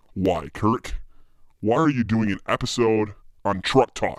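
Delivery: low, hostile, challenging, suspicious voice. The host voices a hypothetical listener's question, in a low-pitched voice. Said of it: "Maybe it's just your low-pitched voice".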